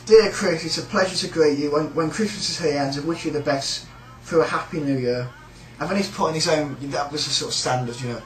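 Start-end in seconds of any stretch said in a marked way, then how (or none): 0.1-5.3 card-reading voice. Shown as a demonstration. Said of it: "Give it a read out".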